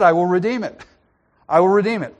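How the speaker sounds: eager kinsman. Retold or imitated. Kinsman eagerly agreeing to redeem the land. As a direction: say it brightly, all in. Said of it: "Oh, he just said".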